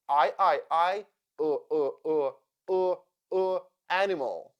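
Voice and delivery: I repeated, then UH repeated, into animal; schwa drill. Shown as a demonstration. Teacher drilling the unstressed second syllable of animal, schwa drill. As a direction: drill I turning into a neutral UH before animal. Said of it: "I sounds like uh".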